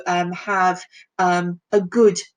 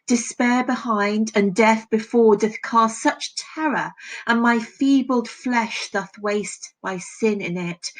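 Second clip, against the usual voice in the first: measured, solemn poetry reading; a teacher reciting Donne before analysing it; poem recital. Acted. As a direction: read the sonnet with weight and care. Reads the sonnet aloud.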